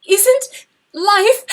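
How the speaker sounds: "isn't life" again, high and loud, trailing off unfinished; stammering, tearful. Acted. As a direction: try again and fail to finish. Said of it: "she stammered".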